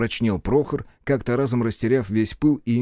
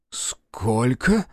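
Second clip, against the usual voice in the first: horrified; 2 semitones higher than usual. A narrator's reading. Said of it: "ужаснулся Авдеев".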